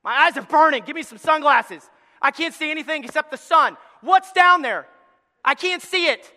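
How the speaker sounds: loud, high amazed cries; dazzled, blinking at the light; astonished crippled man. Acted. Crippled man dazzled at seeing Jesus, astonished. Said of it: "the crippled man go".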